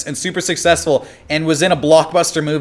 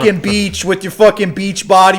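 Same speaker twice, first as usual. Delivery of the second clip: put-on Boston-accented heckling; hammed-up Boston trash talk; mock Boston accent; 4 semitones higher than usual. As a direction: jeer him off in Boston. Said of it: "So that's Boston".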